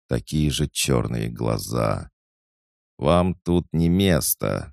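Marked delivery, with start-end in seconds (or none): 3.0-4.7 put-on slow, higher creaky old librarian. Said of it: "скрипучим голосом сказал он".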